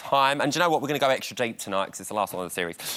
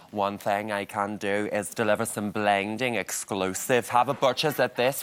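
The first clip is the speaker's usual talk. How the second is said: light mock London accent of Ashley, lightly voiced; Ashley's accent. Host tries Ashley's London accent for the studio, lightly mocking. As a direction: have a go at Ashley's London accent, half-hearted. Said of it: "You want me to do the accent?".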